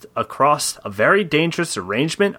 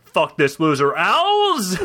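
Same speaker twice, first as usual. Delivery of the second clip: annoyed yell; 2 semitones higher, slower than usual. Acted. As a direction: call out to the owls, annoyed. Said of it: "Biff yelled".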